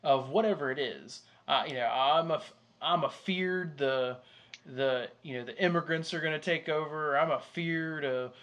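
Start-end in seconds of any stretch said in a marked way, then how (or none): 1.9-7.1 mock Southern worrier; Southern accent. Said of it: "what that accent was". 7.2-8.3 mock Southern worrier; Southern accent. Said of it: "what that accent was".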